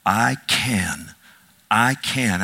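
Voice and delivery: "I can" slow and deliberate, leaning on "can"; emphasis on CAN. Shown as a demonstration. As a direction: repeat "I can", weighting each word with a pause after. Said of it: "I emphasize certain words".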